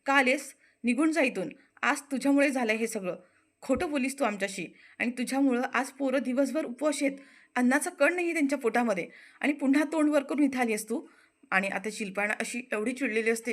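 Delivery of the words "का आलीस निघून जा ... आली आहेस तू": raised, accusing scold, pitch climbing at the end; angry scolding. Acted. Shilpa scolding Anandi at the door, angry. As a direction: tell her off sharply. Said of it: "Shilpa तिच्यावर चिडते".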